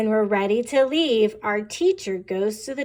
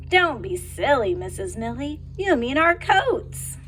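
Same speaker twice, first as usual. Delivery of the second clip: put-on amused children; 2 semitones higher than usual. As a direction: tease the teacher like giggling pupils. Children correct teacher, chorus.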